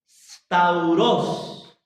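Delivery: stauros pronounced carefully, accent on the O; stress on final syllable. Shown as a demonstration. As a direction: land the stress of stauros on -ROS. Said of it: "con acento en la O".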